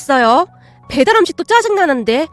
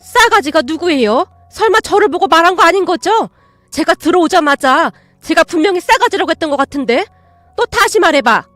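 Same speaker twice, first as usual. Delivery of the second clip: indignant aunt; 3 semitones higher, 4 dB louder than usual. Acted. Aunt challenges the parrot.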